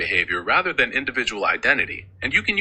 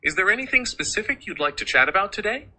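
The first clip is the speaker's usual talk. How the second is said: poised professional British; 3 semitones higher than usual. Shown as a demonstration. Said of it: "more poised and professional British tone".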